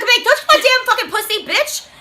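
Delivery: put-on high, loud, laughing through a baby's retort; a cursing baby voiced through laughter; laughing mock baby. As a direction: crack up while voicing her. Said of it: "She's like".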